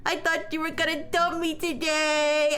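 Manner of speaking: calm visual novel reading; story narration. Acted. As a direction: read the game text out steadily. Reads the visual novel aloud.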